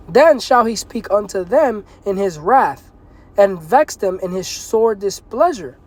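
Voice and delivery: slow, deliberate preacher's reading; slow scripture reading. Acted. Preacher reading God's wrath aloud, slow and deliberate. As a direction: let each word of the verse land.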